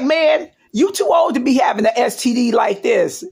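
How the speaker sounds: quoting the doctor while cracking up; can barely hold the laugh in; laughing through it. Real, not acted. Retelling doctor's line while laughing.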